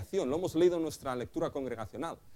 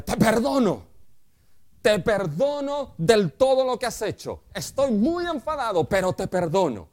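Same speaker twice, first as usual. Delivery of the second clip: raised, louder voice of a fuming father granting pardon; angry forgiving father; 5 semitones higher, 4 dB louder than usual. Retold or imitated. Father tells his son he forgives him, still furious. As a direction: spit out the forgiveness through anger. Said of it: "lo perdona de esta manera. Le dice".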